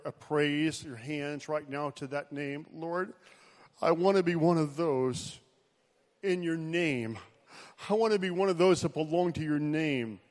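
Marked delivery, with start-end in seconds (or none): 2.7-10.2 prayer. Acted. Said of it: "Lift up a prayer".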